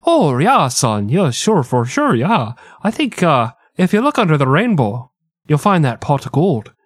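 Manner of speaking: put-on psychic hotline operator trying a Jamaican accent and slipping out of it; failed Jamaican accent. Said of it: "this isn't Jamaican at all".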